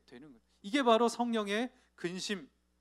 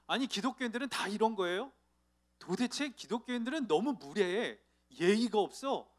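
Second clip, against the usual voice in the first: mock angry monk; 3 semitones higher than usual. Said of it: "그러면서 막 화를 내시더라는 거예요".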